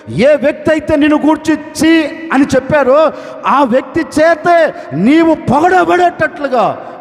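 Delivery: full-voiced sermon delivery, pressing each phrase; fervent preaching. Preacher urging the congregation, in fervent sermon voice.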